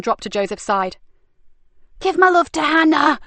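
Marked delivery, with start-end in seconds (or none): 2.0-3.2 higher, louder parting taunt; mocking shout. Frankie shouts a taunt to Nicky while fleeing. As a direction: fling it back as she runs. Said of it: "shouted Frankie as she fled".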